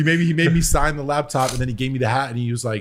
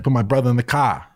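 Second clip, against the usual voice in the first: Boston accent. Shown as a demonstration. Showing the co-host how Boston sounds, mock Boston accent. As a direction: try a Boston tough guy's accent. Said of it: "That, that was your Boston accent?".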